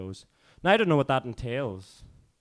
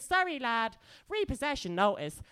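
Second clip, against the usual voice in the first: mock official; 8 semitones higher than usual. Voices bailiff inside the poem.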